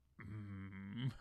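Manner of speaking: low, menacing giant hero growl. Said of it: "I feel like Ultraman growling".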